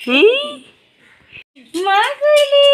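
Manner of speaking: high, drawn-out cooing. Real, not acted. Cooing to a baby.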